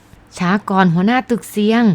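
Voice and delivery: sudden shout. Acted. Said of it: "ตะโกนขึ้นมาเสียงดัง".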